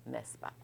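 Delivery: "n'est-ce pas" said slowly and nearly voiceless; whisper-soft and slow, sounded out; soft slow demo. Shown as a demonstration. Teacher quietly sounding out the tag for students. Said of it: "how to pronounce".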